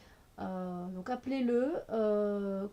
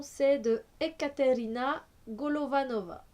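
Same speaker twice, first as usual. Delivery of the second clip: put-on a light, half-hearted Russian accent on the name; lightly put-on Russian accent; attempted Russian accent; 3 semitones higher, 3 dB louder than usual. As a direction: try saying the artist's name with a Russian accent, barely. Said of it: "j'ai essayé de prendre un peu l'accent russe".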